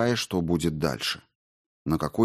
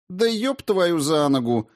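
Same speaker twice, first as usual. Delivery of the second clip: high, slow exasperated cry; exasperated exclamation; 9 semitones higher than usual. Acted. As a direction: throw up your hands in exasperation. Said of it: "воскликнула Маргарита".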